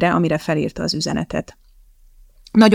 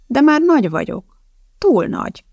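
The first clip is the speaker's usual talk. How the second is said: put-on little girl protest; 8 semitones higher, 4 dB louder than usual. Child protests being too tall.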